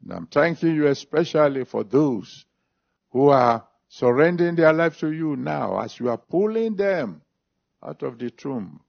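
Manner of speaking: earnest spoken prayer. Real, not acted. Preacher thanking God for those surrendering, in prayer. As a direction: pray to the Father, steady and sincere.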